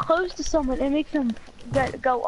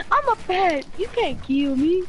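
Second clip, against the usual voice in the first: mock quote. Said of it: "He's like".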